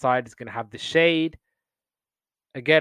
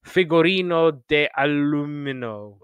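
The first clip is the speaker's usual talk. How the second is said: put-on Italian accent. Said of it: "in an Italian accent".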